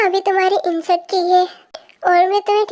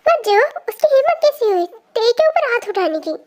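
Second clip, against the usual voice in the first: outraged; 5 semitones higher than usual. Acted. Friend outraged at the slap.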